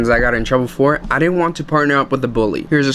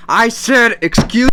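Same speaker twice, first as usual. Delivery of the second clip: defiant; 8 semitones higher, 3 dB louder, slower than usual. Retold or imitated. Retelling defiant reply.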